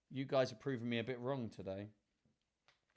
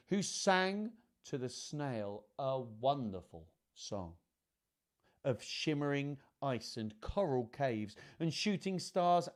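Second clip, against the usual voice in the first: measured, lilting picture-book reading; children's story narration; slower than usual. A narrator's reading. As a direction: read it to children, savouring the rhymes. Reads picture book aloud.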